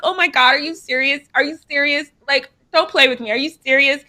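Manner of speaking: lightly voiced excited mom; amazed mom. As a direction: imitate mom who can't believe it. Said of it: "She's like".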